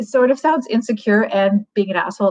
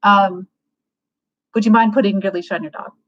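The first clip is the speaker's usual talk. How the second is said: casual and friendly; 2 semitones higher than usual. Shown as a demonstration. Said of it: "enter into the spirit".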